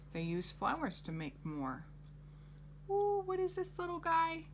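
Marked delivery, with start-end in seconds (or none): 2.9-4.4 high, excited wonder at a new picture; delighted ooh. Real, not acted.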